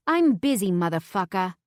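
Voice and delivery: loud, haughty put-down; mock brush-off. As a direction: snub him coolly. Imagined brush-off.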